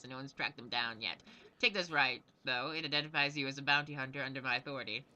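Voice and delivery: lightly voiced brisk gnome commander; a hint of a proud quartermaster; gnome knight giving orders. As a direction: lay out the bounty with mild military authority. Gnome knight offers bandit bounty.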